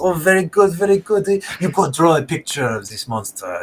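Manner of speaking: lightly voiced smug explorer with a scoff; sanctimonious greeting, daring them on; mustached explorer Pierre. Game master voices the wounded explorer, sanctimonious and scoffing. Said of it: "and he's like".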